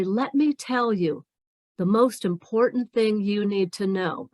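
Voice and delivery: deliberate, powerful speaker taking time; slow down and pause with authority; slow, confident pauses. Acted. Imagined powerful speaker holding the floor, slow and confident. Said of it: "slow down and pause".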